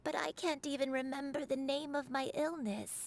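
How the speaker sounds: put-on slow, hesitant elderly recollection; an old woman struggling to remember; frail old woman. Granny recalls illness, low voice.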